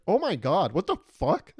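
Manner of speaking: high, loud mortified squeal; mortified animal. Pretend. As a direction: shriek as the horrified dead bird. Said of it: "They'd be like".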